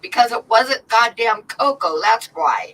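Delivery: triumphant retort. Retold or imitated. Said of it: "And I said".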